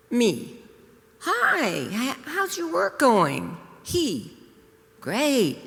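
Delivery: reading her own story aloud. Acted. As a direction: read it like a wry little tale. Reads her story aloud to audience.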